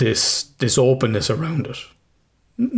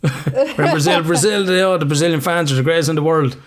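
mocking impression; 7 semitones higher, 3 dB louder than usual. Mocking Hamilton's interview praise.

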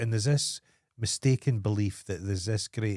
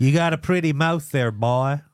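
menacing hillbilly joke; lightly hammed Southern accent; mock hillbilly; 3 semitones higher, 5 dB louder than usual. Deliverance-style hillbilly quote.

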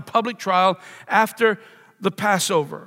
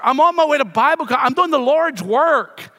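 higher and louder, fast then slowing on the Lord's work; pious excuse; 4 semitones higher, 3 dB louder than usual. Retold or imitated. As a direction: sell the holy excuse to the officer. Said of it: "I told the officer".

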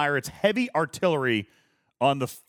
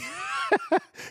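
shrieking laugh; 4 dB quieter than usual. Real, not acted. Bursts out laughing at story.

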